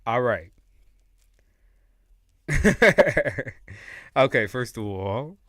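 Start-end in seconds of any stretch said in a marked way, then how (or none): 2.5-4.1 loud, high burst of laughter; real laugh. Real, not acted. Tarot reader amused by the cards, laughing hard.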